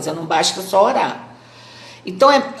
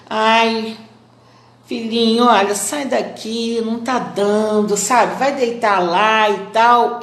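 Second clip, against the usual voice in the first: gentle tone. Shown as a demonstration. Gently sending the little dog off to lie down. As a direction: coax him away tenderly. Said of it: "Mas vamos dizer assim".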